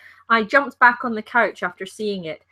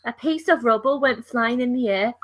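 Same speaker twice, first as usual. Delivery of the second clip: attempted Liverpool accent; 3 semitones higher than usual. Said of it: "You sound just like my ex".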